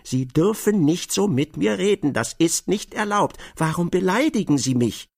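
high, loud, wounded protest; a humiliated client yelling at K, indignant and loud; loud indignant outburst. Acted. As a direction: shout him down, offended. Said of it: "rief so laut".

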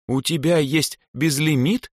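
high, drawn-out disbelief; stunned question. A narrator's reading. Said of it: "ошарашенно спросила Эльза".

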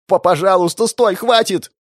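a beaten opponent pleading for mercy; desperate begging. Acted. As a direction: beg him to stop, voice cracking up. Victim begs in terror.

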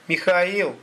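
high, scornful name-call; sneering repeat of a rival's name; contemptuous drawl. A narrator's reading. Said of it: "презрительно протянул Сахалин".

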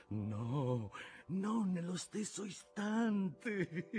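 slow, drawn-out denial rising to a shout; gloating claim, building. A narrator's reading. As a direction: possessive captain working himself up. Captain claims doubloon, building to shout.

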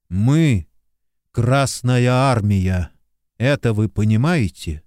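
slow, each word weighed; firm insistence. A narrator's reading. Lieutenant insisting to soldiers, slow and firm. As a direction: hammer home every word.

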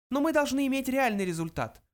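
high, insistent little voice; emphatic mouse. A narrator's reading. Mouse insists on a real result, emphatic. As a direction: press the point in a high voice. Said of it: "подчеркнул Фрэнки".

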